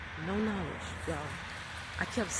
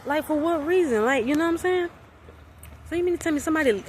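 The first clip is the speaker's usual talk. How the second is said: outraged; 7 semitones higher, faster than usual. Real, not acted. Outrage at being spied on.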